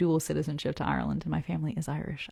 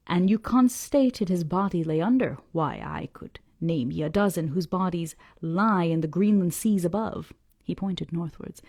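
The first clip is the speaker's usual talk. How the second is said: put-on old Yorkshire fisherman; 3 dB louder than usual.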